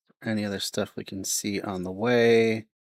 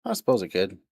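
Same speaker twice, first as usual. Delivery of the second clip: southern accent; faster than usual. Shown as a demonstration. Streamer trying a Southern accent for chat. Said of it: "Read with some southern accent".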